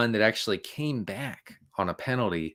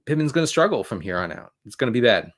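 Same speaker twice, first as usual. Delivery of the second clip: ordinary talk, nothing marked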